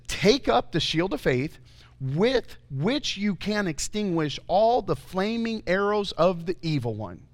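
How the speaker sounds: slow, deliberate Bible reading; scripture reading. Real, not acted. Preacher reading the shield of faith verse, slow and emphatic. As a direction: read the verse out with measured weight. Reads scripture aloud to congregation.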